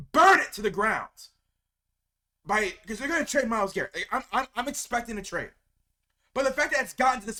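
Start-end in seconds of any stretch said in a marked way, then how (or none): 0.1-1.1 angry shout. Real, not acted. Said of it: "That's the anger in me".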